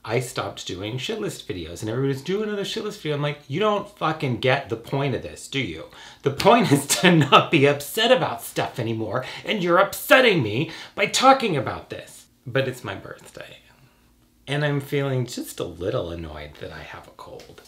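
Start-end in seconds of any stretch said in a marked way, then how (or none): 3.5-12.2 scolding, pushed louder toward the end; exasperated rant. Acted. Telling off people making shit list videos, exasperated. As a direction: tell them off, building in volume.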